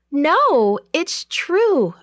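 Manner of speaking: very high, emphatic insistence; insistent cry. A narrator's reading. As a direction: cry out, desperate to be believed. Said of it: "Rhoda cried".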